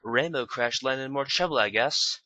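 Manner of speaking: mild mock jab; teasing jab. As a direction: needle her, slowly. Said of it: "Rarity jabbed".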